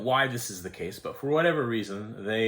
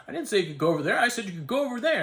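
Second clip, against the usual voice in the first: mock angry attendant; 10 semitones higher, 4 dB louder, faster than usual. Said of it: "he got mad at me".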